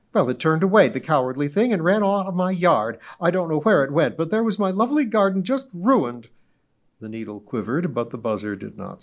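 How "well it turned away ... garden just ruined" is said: high, loud, grandly self-important society lady; pompous witness. Acted. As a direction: orate as if giving a club speech. Mrs Donahue aggrieved account.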